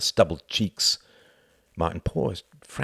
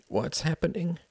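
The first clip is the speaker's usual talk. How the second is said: put-on young girl; 10 semitones higher, 5 dB quieter than usual. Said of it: "asked his youngest daughter".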